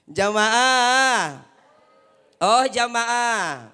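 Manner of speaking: loud drawn-out call; preacher rallying the congregation. Real, not acted. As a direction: call out to rouse the crowd. Calling out to congregation.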